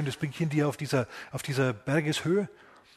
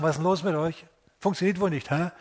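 mocking jeer; 3 semitones higher than usual. Pharisees jeer at the disciples.

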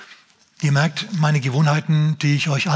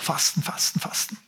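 mock whisper; 7 dB quieter than usual. Mocking the pious fasting.

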